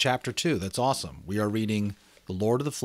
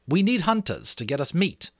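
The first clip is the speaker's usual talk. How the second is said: put-on higher, louder boy leader; Ralph; 10 semitones higher, 4 dB louder than usual. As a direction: lay it out to the boys. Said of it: "said Ralph".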